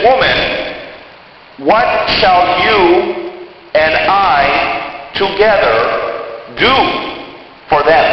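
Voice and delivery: slow, tender invitation; slow and tender, never annoyed; tender, not annoyed. Retold or imitated. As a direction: gently invite her to work together. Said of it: "See how different that is? That is not at all annoying".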